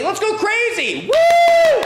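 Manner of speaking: high shout bursting into a loud woo; wild cheering. Shown as a demonstration. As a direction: set the crowd off with an all-out cheer. Demonstrates wild cheering for audience.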